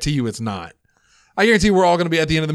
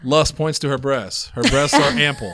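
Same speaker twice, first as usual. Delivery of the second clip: slow, deadpan pretend narration; mock audio describer; slower than usual. Joking audio description for blind people, slow mock narrator. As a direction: lightly put on a describer's measured delivery.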